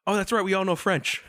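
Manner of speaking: high-pitched mock dawning realisation; playful high "oh, of course" voice; retold sudden realisation. Acting out sudden realisation to friends.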